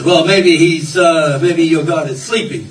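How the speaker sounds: mildly cocky taunt; playful, understated goading. Acted. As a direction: needle them with a lightly cocky suggestion. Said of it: "Elijah got a little cocky with them".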